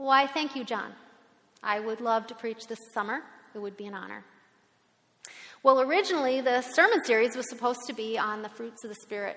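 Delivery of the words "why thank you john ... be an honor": put-on calm, composed, unruffled voice. Recalling replying to a colleague of twelve years; retelling own calm reply. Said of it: "I very calmly and very coolly said".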